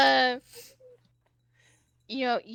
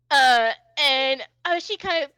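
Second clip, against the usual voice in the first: ordinary talk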